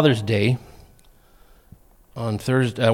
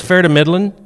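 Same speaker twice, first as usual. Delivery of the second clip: put-on old man phrase; 5 semitones higher, 6 dB louder than usual. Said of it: "He goes".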